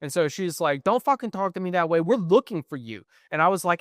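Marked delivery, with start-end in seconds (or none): 0.8-3.0 higher, sharp mock sass; imitating a sassy saleswoman's snap-back; sassy retort. Saleswoman snapping at a rude caller, mock sassy. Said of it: "like, so fucking sassy".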